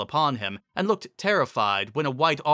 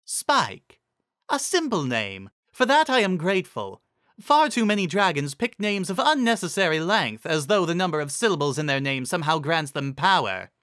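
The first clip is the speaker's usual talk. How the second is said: higher, lofty musing; regal Celestia; 6 semitones higher than usual. Acted. Celestia pronouncing on Spike's name, higher and lofty. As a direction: speak down from on high.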